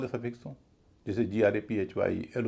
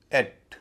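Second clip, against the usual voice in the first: "एट" stressed with an open e; heavy syllable; 4 dB louder than usual. Shown as a demonstration. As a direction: give "एट" full weight. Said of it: "क्योंकि वो भारी है".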